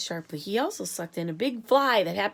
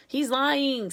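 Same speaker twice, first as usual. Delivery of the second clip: loud, higher snap of an accusation; sharp accusation; 5 semitones higher, 5 dB louder than usual. A narrator's reading. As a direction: call him a liar outright. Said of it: "said Miss Tibbs".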